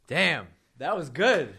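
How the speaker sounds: loud, high "damn" of real admiration; an excited cry of approval; impressed outburst. Real, not acted. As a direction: blurt out how much the story landed. Host reacts to the parable.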